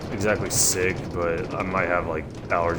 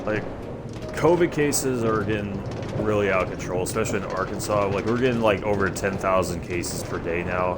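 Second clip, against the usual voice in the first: slightly nasal, stuffy voice. Real, not acted. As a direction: talk through a blocked nose. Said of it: "I do sound, like, a little, little nasally".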